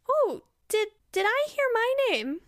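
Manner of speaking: high, sing-out delighted greeting; Faust. Acted. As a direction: pitch way up, feigned innocent delight. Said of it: "and then they say".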